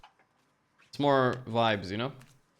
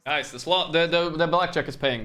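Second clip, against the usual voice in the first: excited; 5 semitones higher, 3 dB louder than usual. Real, not acted. Excited win at blackjack table.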